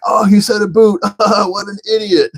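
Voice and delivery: high sneering voice; mocking commenter. Mimicking commenters who mock his accent. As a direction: lightly mimic a smug commenter. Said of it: "they're like".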